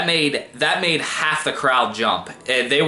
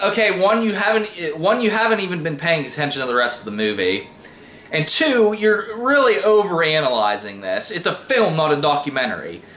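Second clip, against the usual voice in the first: higher-pitched, exasperated point-by-point rebuttal; annoyed; 3 semitones higher than usual. Retold or imitated. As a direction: set a nitpicker straight, fed up. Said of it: "I'm just kinda getting really annoyed".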